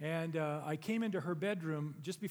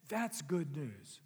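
slow echo; much slower than usual. Acted. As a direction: let it sink in. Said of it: "Can you feel the power".

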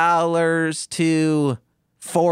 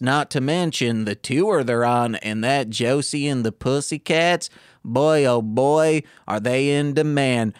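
scripted sales pitch; 2 semitones lower than usual. Retold or imitated. Ticket seller parroting the script to a customer, a touch of mock salesmanship. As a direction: recite the company script like a bored rep. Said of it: "things they would have us say".

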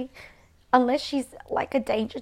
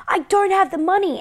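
mom's excuse, pitched high and louder; mimicking mom; 8 semitones higher, 6 dB louder than usual. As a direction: play the mother whining her excuse. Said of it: "And she's like".

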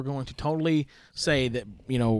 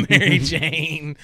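slow words through a laugh, high and loud; 4 semitones higher, 6 dB louder, much slower than usual. Real, not acted. Host laughing at co-host mixing up Mary Sue, drawn-out laugh. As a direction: laugh the name out slowly.

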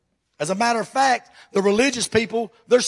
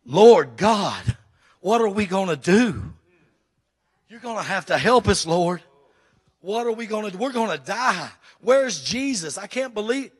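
loud panicked plea to God; desperate prayer; 5 dB louder than usual. Acted. Frightened disciples praying loudly, desperate and panicked. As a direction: cry out in desperate fear. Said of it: "You talking about weeping".

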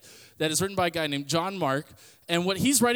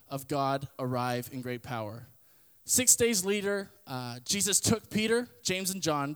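a softer, steadier reading of the Bible passage; scripture reading; 4 dB quieter than usual. Acted. Youth pastor reads the Mark passage to the group, in a soft reading voice. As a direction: read the passage out plainly and a little softer.

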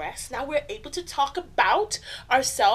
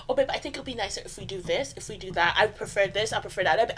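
soft gentle suggestion; 5 semitones lower, 4 dB quieter than usual. Shown as a demonstration. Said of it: "Do it in a soft voice".

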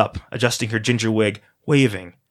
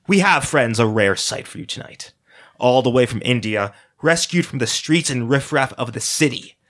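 showy game show host voice; auctioneer; 2 semitones higher than usual. Acted. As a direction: present it like a slick auctioneer. Auctioneer presenting the boy.

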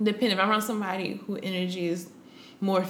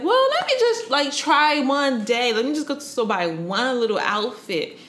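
retold eagerness; 5 semitones higher, 3 dB louder than usual. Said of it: "So then I was like".

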